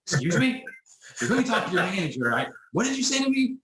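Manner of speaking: high, indignant mock outrage; imitating a caller who takes offence; offended caller. Caller offended at being brushed off, mock outrage. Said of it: "He was so offended".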